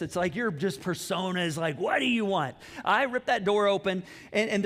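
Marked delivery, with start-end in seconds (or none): 1.8-2.5 mock irritated. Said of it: "people can just tell you're pissed".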